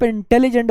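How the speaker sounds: इंटेलिजेंट broken up as 'in... telli... gent'; pauses between syllables. Shown as a demonstration. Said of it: "एक से ज्यादा pause लिया".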